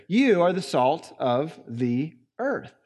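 slow, deliberate verse reading; measured, weighty scripture reading; scripture read aloud. Retold or imitated. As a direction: read the verse out slowly, word by word. Reads the verse out.

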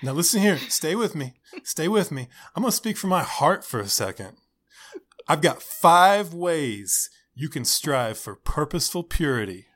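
lightly voiced earnest youth pastor; gently pleading youth leader; upbeat youth pastor. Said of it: "the random youth pastor voice".

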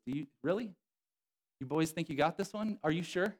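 mild sarcastic challenge. Retold or imitated. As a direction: needle the boys with mock doubt. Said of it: "the reason why I know it's, uh, sarcasm".

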